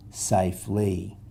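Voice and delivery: "safely" said slowly and softly, each syllable clear; slow modelled word. Shown as a demonstration. Teacher reading "safely" slowly to pupils. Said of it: "the vowel sounds are A, E".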